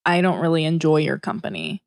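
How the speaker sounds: offhand, low-key put-down; chillingly casual. Pretend. Rehearsing a chance encounter with her, chillingly casual. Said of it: "that delivery, I got chills. ... it's so casual".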